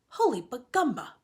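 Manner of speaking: voicing Flora, amazed; excited exclamation. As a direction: burst out in wonder. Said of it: "said Flora".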